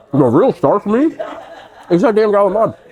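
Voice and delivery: high laughing delight. Real, not acted. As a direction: laugh through it, thrilled. Laughing delight over favorite sauce.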